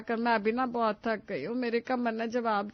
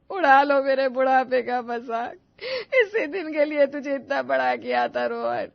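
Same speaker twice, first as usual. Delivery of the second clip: louder tearful reproach; hurt wailing; 5 dB louder than usual. Acted. Mother wailing at her son Rohan for laughing at her old age, tearful and loud. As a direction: wail at your son as if betrayed.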